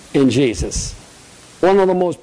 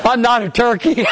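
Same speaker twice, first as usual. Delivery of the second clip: laughing; 11 semitones higher than usual. Real, not acted. Still laughing at the turkey.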